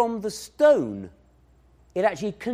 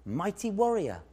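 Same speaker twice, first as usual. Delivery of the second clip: encouraging; 2 semitones higher, 5 dB quieter than usual. Shown as a demonstration. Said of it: "gives them encouragement".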